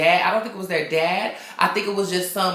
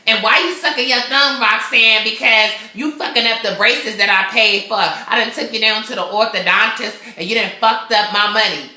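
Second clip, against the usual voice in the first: mom's angry scolding; 5 dB louder than usual. Retold or imitated. Distraught mom berates daughter.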